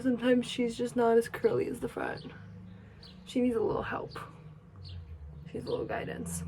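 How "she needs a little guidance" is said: soft voiceless whisper of the same thought. Real, not acted. About the back of her hair, whispered to camera. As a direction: drop to a hush for the second line.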